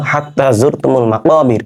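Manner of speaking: slow, measured Arabic verse recitation; unhurried tajweed-style reading; Quran recitation. Acted. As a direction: recite the verse slowly with drawn-out vowels.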